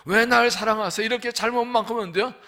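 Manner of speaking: high, loud, pleading question to God; a loud plea that rushes on; fervent cry. Real, not acted. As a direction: burst out as if asking God face to face. Preacher cries out to God.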